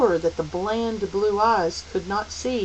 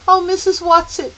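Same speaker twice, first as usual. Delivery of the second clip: much higher, louder plea; despairing call; 11 semitones higher, 9 dB louder than usual. Acted. Meg keeps calling for her guide, despairing. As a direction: cry out again, hopelessly. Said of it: "Meg called despairingly".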